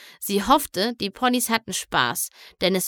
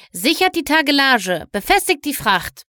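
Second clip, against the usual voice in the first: loud, higher captain's orders; commanding; 5 semitones higher, 5 dB louder than usual. A narrator's reading. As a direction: command the crew across the deck. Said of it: "befahl Kapitän Silano".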